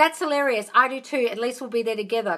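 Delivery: ordinary talk, nothing marked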